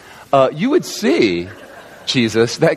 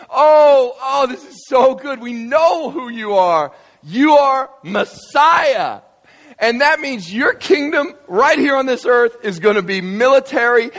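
higher, shouting disciples, eager and thrilled; excited hype; 9 semitones higher, slower than usual. Acted. Disciples cheering Jesus on about a military kingdom, excited shouting. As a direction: shout it like the kingdom is coming tomorrow.

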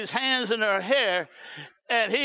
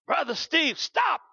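urgent halt; 5 semitones higher than usual. Retold or imitated. Passenger suddenly halts the driver.

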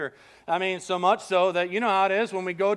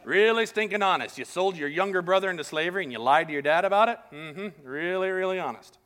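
sarcastic; 2 semitones lower than usual. Retold or imitated. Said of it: "I'm sure Joseph's like".

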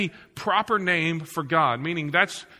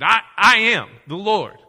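booming God voice; 6 dB louder than usual. Acted. Voicing God with force.

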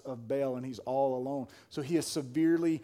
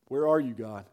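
lower-pitched but full-voiced question; voiced plea to God; 4 semitones lower than usual. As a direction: put weight behind the plea, still low. Same plea repeated more strongly.

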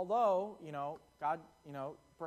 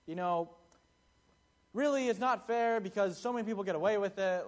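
hammed-up whining protest, higher and louder; mock angry complaint; 4 semitones higher, 6 dB louder than usual. Ticketed driver protests to the judge, mock whiny. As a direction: gripe to the judge like a sore loser. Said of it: "crying and angry at the judge".

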